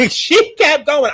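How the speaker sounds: She kept going, slow through a laugh; laughing repeat. Real, not acted. Reviewer laughing at the singing scene, slow.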